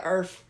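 a small, low bark; dog bark. Shown as a demonstration. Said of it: "You have to have, like".

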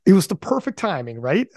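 a high, loud burst of hype on dude; hyped mock shout that settles quickly; fired-up quote. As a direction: imitate a buddy amped up in a voice message. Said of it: "He was all fired up".

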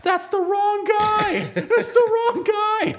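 high, loud, drawn-out shout; full-volume mock bystander outcry; imitated yelling. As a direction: yell it out like a panicked crowd. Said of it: "Everybody in the McDonald's is yelling".

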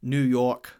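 slow, rough attempt at a New York accent; badly put-on New York accent; butchered New York accent. Shown as a demonstration. Comparing accents in America, a butchered New York accent. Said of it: "I probably butchered both of those".

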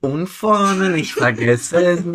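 mock kindergarten brushing lesson, slow and deliberate; imitating the tooth-brushing lady. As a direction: spell out each brushing step like a patient school dental nurse. Imitating school brushing instruction.

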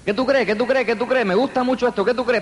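high, laughing mock wife voice; mimicking chatty wife. Husband imitates his wife chattering on the long drive, high and giggly. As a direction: play the wife asking it over and over, giggling.

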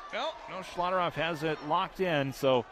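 loud, fast excited play-by-play; excited call. Real, not acted. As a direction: call the finish with energy. Match ends, calling the win.

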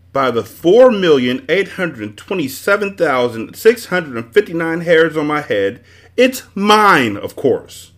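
booming high and loud across a cavern; a booming magician's bellow from afar. A narrator's reading. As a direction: bellow it proudly. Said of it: "bellowed a voice from across the cavern".

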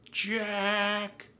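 high, drawn-out call. A narrator's reading. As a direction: call his name to get attention. Annie calls to Jack.

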